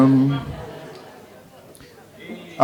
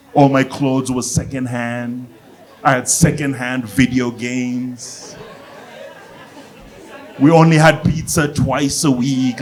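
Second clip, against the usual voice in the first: self-pitying complainer; slower than usual. Acted. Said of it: "try and convince you they grew up poor".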